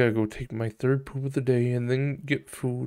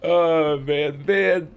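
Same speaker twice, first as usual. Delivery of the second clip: normal talking voice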